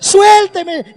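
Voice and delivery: high-pitched bursting demand; child's tantrum. Retold or imitated. Girl to parents on the slope, tantrum yell. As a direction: mimic a little girl's outburst to be freed. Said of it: "empezó a hacer un berrinche".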